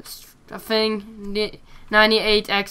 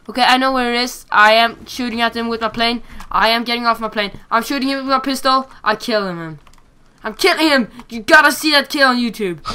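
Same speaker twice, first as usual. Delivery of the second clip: hyped; 4 semitones higher, 6 dB louder than usual. Real, not acted. Narrating his kill streak live.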